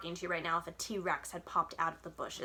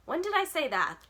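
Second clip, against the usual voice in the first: higher, louder angry rebuke; Ma cuts Jax off, higher and louder, angry; angry bark; 9 semitones higher, 6 dB louder than usual. Acted. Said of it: "Ma barks angrily".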